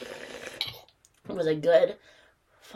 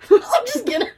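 high silly put-on voice; mock voice; 13 semitones higher, 4 dB louder, much faster than usual. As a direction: say it in a goofy high voice.

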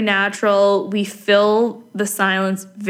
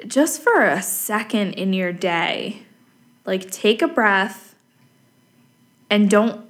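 gentle guided calm. Acted. Guiding listeners to breathe, be present.

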